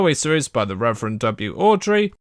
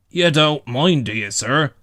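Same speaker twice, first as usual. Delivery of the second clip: anxious; 3 dB louder than usual. A narrator's reading. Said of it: "asked Toby anxiously".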